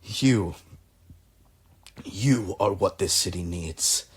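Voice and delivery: lightly voiced patron, pleased and impressed; delighted patron. Patron praising the clever inventor, lightly voiced delight. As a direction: praise your clever protégé with eager, halting questions.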